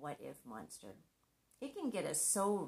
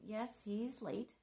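slow, settled reassurance; unhurried calm self-talk; calm acceptance; 4 semitones higher, slower than usual. Retold or imitated. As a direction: talk yourself down gently. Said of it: "My new thoughts became".

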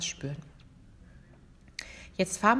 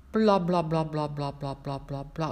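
loose-jawed bla; 3 semitones lower than usual. Shown as a demonstration. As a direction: let the jaw hang and flop through each bla. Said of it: "indem wir sagen".

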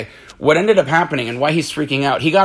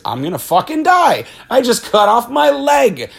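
higher, half-laughing mock freak-out; mock panic; 9 semitones higher than usual. Gordon after cutting off his leg, hammed-up panic. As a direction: play up the victim's panic, amused.

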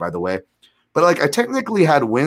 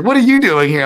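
much higher and louder, excited; old classmate spotting him in the cage, high excited question; surprised girl's question; 10 semitones higher, 8 dB louder than usual. Retold or imitated. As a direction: ask in a high delighted girl voice. Ring girl's surprised greeting.

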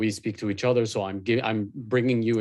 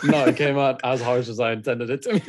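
laughing. Real, not acted. Laughing reply.

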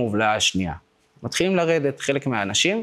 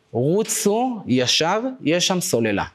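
higher, drawn-out call, only mildly raised; retold shout; 5 semitones higher, slower than usual. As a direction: imitate someone calling directions from the side. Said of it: "מישהו התחיל לצעוק לנו מהצד". (חיקוי קריאה מתוחה בקול גבוה)

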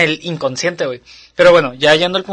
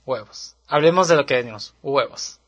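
mock the girl's flat "huevos"; imitating Monster House girl; 3 semitones lower than usual. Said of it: "Así".

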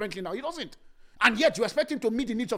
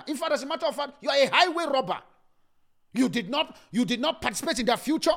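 scolding rebuke; 4 semitones higher, 5 dB louder than usual. Real, not acted. Preacher scolding people riding others' success.

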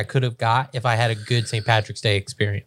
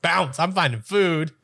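mock Irish immigrant; 5 semitones higher, slower than usual. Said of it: "They were all like".

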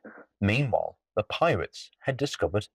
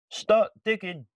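pirate chief voice; 10 semitones higher than usual. Acted. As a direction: call it out like a pirate.

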